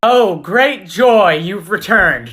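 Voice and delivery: very slow, dry mock joy; sarcastic welcome. Friend greeting Marvin's return with slow sarcastic joy. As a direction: drag out the fake delight.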